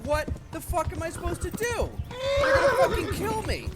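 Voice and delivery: exasperated yell at the game; frustrated shout. Real, not acted. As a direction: shout it in panic as they close in. Enemies about to kill him.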